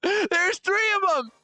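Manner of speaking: drawn-out high laughing exclaim; slow high laughing outburst. Real, not acted. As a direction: stretch it high through a laugh. Same line repeated mockingly.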